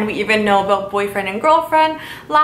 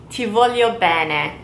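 slow demo phrase. Shown as a demonstration. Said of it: "and that would be".

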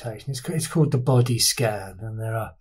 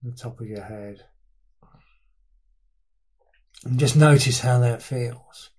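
unhurried body-scan guidance with long pauses between instructions; guided meditation. Real, not acted. Teacher leading listeners through a body scan, guided meditation. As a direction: guide listeners through their body, leaving space after each phrase.

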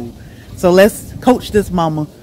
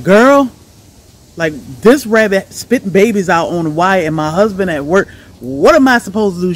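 retold panic; 3 semitones higher, 6 dB louder than usual. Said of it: "and I was like".

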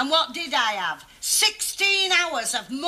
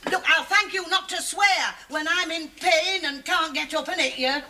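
indignant telling-off; 4 semitones higher than usual. Acted. Scolding him for swearing at her.

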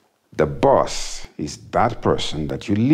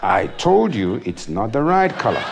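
wife's voice; 3 semitones higher than usual. Retold or imitated. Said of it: "she said".

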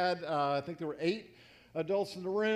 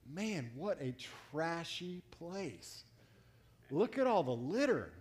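mock disgust; 3 dB quieter, slower than usual. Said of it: "and I'm thinking".

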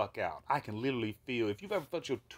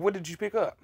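officer's question; 9 semitones higher, 5 dB louder than usual. Retold or imitated. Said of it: "another officer was like".

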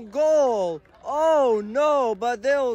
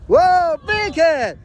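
excited shout; 9 semitones higher, 5 dB louder, slower than usual. Real, not acted. Reacting to a hard tackle.

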